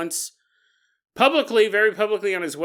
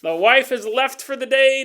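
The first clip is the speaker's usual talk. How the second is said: higher, laughing, louder sly aside; a laughing wink at the listener; laughing mock listener; 7 semitones higher, 6 dB louder than usual. Imagined listener alone at home, laughing sly aside. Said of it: "You're not like".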